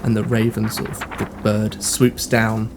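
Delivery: measured narration with long pauses; game master's scene setting. Acted. Game master describing a dream to a player, measured narration. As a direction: unfold the vision piece by piece.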